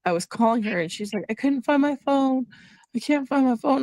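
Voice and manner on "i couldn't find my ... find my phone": higher, a touch of confused worry; lightly imitated bewildered mother; confused mom. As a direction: mildly voice mom's lost, uneasy words. Retelling mom's confused stroke call.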